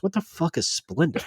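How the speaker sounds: high-pitched mock bafflement; baffled manager impression. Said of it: "Like that".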